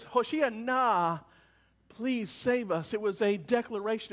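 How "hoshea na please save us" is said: slow pleading. Shown as a demonstration.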